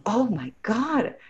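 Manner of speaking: high, loud, thrilled gushing; squealing that it's so much better; excited gush. Retold or imitated. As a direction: gush like you've just found something better. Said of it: "you were like".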